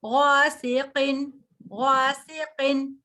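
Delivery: غاسقین slowly, with a heavy ghain and a thick qaf and a light seen; teacher models heavy and light letters slowly. Shown as a demonstration. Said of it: "قاف کو بھی موٹا رکھنا ہے".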